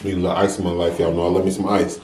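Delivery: ordinary delivery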